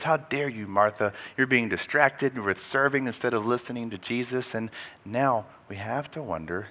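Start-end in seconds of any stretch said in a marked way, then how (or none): 0.0-4.6 indignant rebuke. Retold or imitated. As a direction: stress on How, loud and falling. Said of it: "Our first reaction was".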